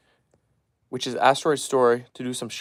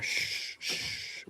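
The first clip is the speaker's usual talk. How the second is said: whispered shushing, much softer; hushed whisper; 13 dB quieter than usual. Real, not acted. Owner shushing his restless dogs in a whisper. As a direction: breathe a calming shh.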